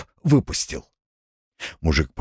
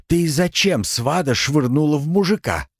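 higher, astonished asking; astonished question; 6 semitones higher than usual. A narrator's reading. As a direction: ask in disbelief. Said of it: "изумлённо спросил Артём".

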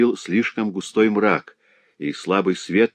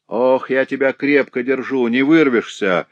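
hoarse rasp; 5 semitones higher, 4 dB louder than usual. A narrator's reading. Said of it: "прохрипел Грамотей".

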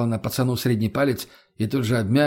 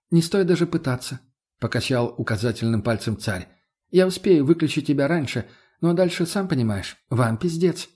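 put-on smug boy Tsar. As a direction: gloat over them like a spoiled kid king. Tsar threatening. (самодовольный царь, слегка выше)

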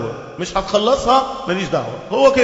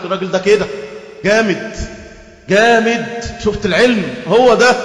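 louder, gushing mock awe; mocking the dazzled crowd, louder at the end; mock admiration; 3 dB louder than usual. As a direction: ham up an impressed fan, building to a louder peak. Mimicking an awed admirer.

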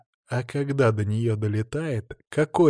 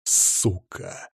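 hissed curse; 5 semitones lower, 3 dB quieter than usual. A narrator's reading. Hissed curse under breath.

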